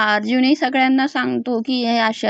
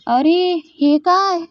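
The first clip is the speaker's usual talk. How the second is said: mock surprise; 5 semitones higher, slower than usual. Villain mocking guards who find they shot their boss, mock surprise. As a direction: ham up a dumbfounded guard.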